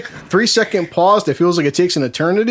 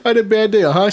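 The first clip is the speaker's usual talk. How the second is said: higher-pitched, imitated tearful whine; hammed-up weepy complaint; mock crying; 3 semitones higher than usual. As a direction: imitate an upset wife complaining on the phone. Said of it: "called me one time crying".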